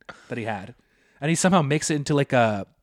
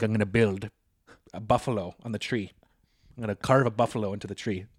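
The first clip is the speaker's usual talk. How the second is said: understated, slightly low dad announcement; deadpan the plan in his voice; Wayne impression; 3 semitones lower, 4 dB quieter than usual. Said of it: "that's a Wayne impression".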